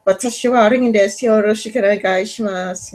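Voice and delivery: a learner showing off a practiced Japanese greeting; quick Japanese phrase. Retold or imitated. Proud learner quoting the Japanese greeting to the interviewer, brisk and light. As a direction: rattle off the Japanese fast, lightly imitated. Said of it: "it's kinda like".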